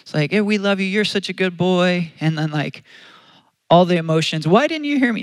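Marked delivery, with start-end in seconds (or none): 0.3-2.1 lightly cooing, higher-pitched praise; a touch of doting parent voice; soothing parent. Retold or imitated. Parents soothing a crying child. 4.5-5.2 high-pitched mock complaint; little boy's wail, pitched way up; venting child. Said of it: "he's venting".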